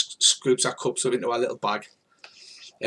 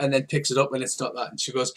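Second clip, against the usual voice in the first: ordinary talk, nothing marked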